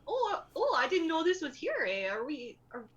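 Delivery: a hint of folksy character voice; hesitant dwarf woman. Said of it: "So she's".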